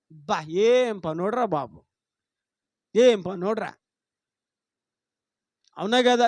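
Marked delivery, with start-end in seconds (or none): 0.1-3.7 slow mockery. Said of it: "అంటే ఎగతాళిగా అనమాట".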